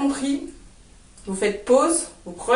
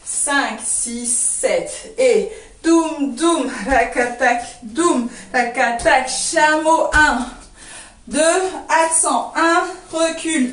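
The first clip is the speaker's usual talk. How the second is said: vocalised dance rhythm; slower than usual. Shown as a demonstration. Dance teacher sounding out doum and rakatak for students, rhythmic cueing. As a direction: count in, then drum-like syllables on the beat. Last counted run-through.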